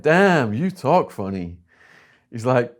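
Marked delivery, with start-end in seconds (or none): 0.0-1.6 surprised. Retold or imitated.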